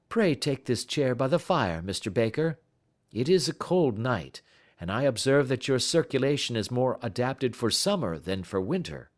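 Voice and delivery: brisk, friendly detective greeting his guest; Holmes voice. Acted. Holmes welcoming Baker by the fire, lightly genial.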